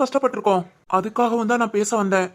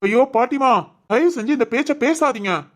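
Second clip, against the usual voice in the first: exasperated shouting; 4 semitones higher than usual. Acted. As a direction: shout to make her stop the talk. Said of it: "ஏன் கத்துற?".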